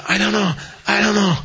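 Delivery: mock freaking out. Stumped logician in a crisis, mock freaking out. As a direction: act out a man losing it. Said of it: "He's, like, freaking out".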